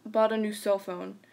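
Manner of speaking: even, measured storyteller delivery; narrator voice. Shown as a demonstration. Reading a scary story to friends, narrator voice. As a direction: narrate steadily, letting phrase ends drop. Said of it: "I'm gonna use my narrator voice".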